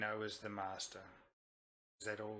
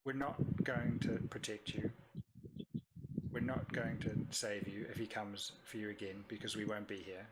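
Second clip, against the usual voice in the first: quiet threat; 3 semitones lower than usual. Acted. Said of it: "I'll say".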